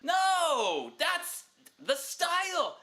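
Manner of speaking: put-on a rock-kid son arguing back high; whiny teen son. Son defends his band clothes.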